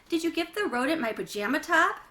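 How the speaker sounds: rising outrage. A narrator's reading. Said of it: "Janie's voice climbed higher and higher".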